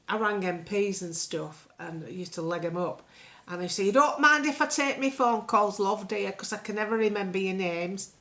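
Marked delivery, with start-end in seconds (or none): 3.9-8.1 put-on old lady voice. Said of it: "Missus Battersby as this character".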